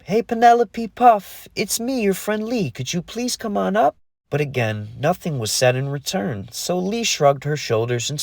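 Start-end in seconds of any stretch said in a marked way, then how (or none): 0.0-4.0 calling out. A narrator's reading. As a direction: call down into the well. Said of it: "She yelled one more time".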